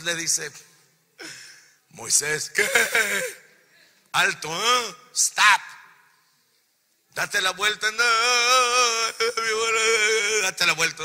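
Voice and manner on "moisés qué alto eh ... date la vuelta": loud commanding calls to stop; shouting. Acted. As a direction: call him back with full authority. God calling Moses to stop.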